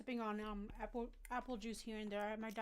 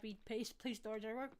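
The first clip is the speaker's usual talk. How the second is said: munching popcorn. Real, not acted. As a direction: mouth full of popcorn. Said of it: "Sorry, I'm eating popcorn".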